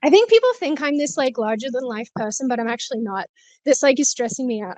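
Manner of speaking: breathless while walking; out of breath. Real, not acted. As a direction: talk while short of breath. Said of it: "I'm getting out of breath".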